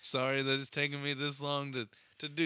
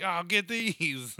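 1 imitating toddler; 7 semitones higher, 4 dB louder, slower than usual. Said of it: "She was like".

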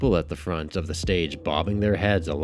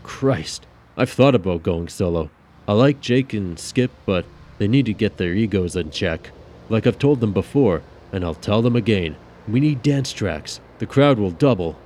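grumbling bandmate; 4 semitones higher, 6 dB louder than usual. Acted. Seb venting about band.

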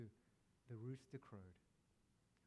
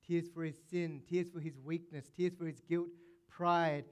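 rising preacher intensity; 3 semitones higher, 8 dB louder than usual. Real, not acted.

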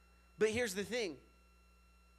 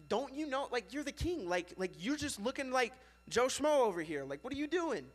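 mock scolding wife; 6 semitones higher than usual. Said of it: "she was like".

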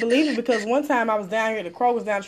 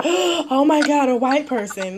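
slow, mock-gasping mirror of her words; mock shocked echo; slower than usual. Mocking the white lady back in the store, slow fake gasp. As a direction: throw her shock right back, slowly.

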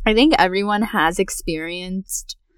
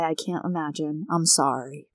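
gentle sympathy; 5 dB quieter than usual. Shown as a demonstration. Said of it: "just say".

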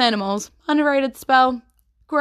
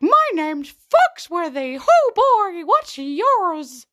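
higher, slow put-on character voice; playful character voice; 10 semitones higher, 4 dB louder, slower than usual. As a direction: ham up a quirky stranger introducing himself. Character voice retold in play.

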